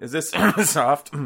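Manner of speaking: muffled. Pretend. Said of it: "kinda muffle it".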